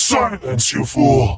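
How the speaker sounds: booming, thunderous shout in a character voice. Voicing a character silencing a visitor: booming shout in character. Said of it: "the noise of that actually echoes throughout the hall".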